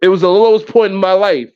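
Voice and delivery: mocking a celebrity apology; sarcastic fake remorse. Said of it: "Say that to Bubba".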